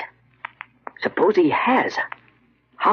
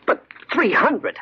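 much higher and slow, disbelieving; incredulous; 9 semitones higher, slower than usual. Acted. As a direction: stretch it out in shocked disbelief. Shocked at the low offer.

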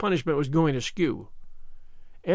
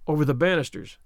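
plain reading voice

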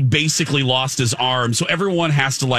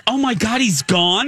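mock clueless question; imitating a dim, surprised girl; acting dumb; 4 semitones higher than usual. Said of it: "She acted so dumb".

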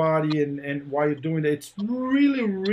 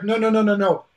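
imitating a quick, louder string of no's; mock correcting, higher and insistent; retold correction; 4 semitones higher, 5 dB louder than usual. Retold instructor correcting him.

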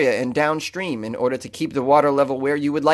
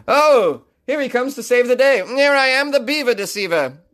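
superhero voice; 8 semitones higher than usual. Pretend. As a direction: swoop in like a cheesy superhero. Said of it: "a really bad superhero".

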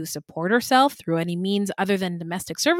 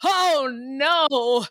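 church lady shout; 4 semitones higher than usual. Pretend.

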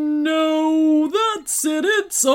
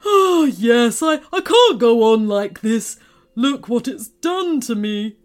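loud woeful outburst, then subsiding; tearful sniffing; 7 dB louder than usual. A narrator's reading. Candy maker gives up his business, tearful. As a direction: lament loudly, ending on a sniff. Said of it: "sniffed Doctor Quigo".

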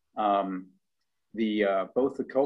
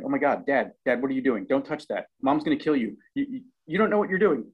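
higher, louder, rushing faster at the end; mock alarm of kids stampeding in; panicking kids; 5 semitones higher, 4 dB louder, faster than usual. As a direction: kids warning Dad off the stove, higher and louder. Kids voiced panicking at Dad.

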